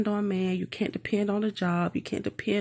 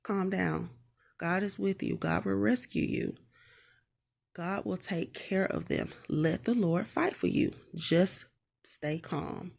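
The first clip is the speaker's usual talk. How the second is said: softer, soothing Moses voice; calm the frightened people gently; lightly voiced Moses, soft and steady; reassuring Moses; 3 dB quieter than usual. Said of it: "And Moses is like".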